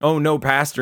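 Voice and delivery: high, flustered mock alarm; nervous. Caught woman startled by her pastor, high flustered cry. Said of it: "she gets nervous".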